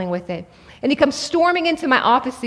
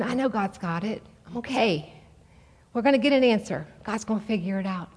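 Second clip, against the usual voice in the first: put-on softer, settled voice of the calmed boy; quiet calm son; 5 dB quieter than usual. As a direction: say it hushed, like peace just arrived.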